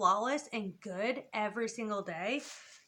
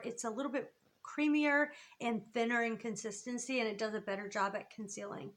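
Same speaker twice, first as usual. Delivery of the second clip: out of breath; 4 dB quieter than usual. Real, not acted. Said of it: "Wow, I'm out of breath".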